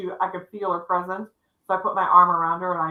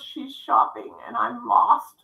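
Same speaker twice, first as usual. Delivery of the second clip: lightly voiced child, higher and slow; slow, raised voice of a lost child; little lost girl; 4 semitones higher, slower than usual. Crying girl answering the woman, lightly voiced lost child. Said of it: "she goes".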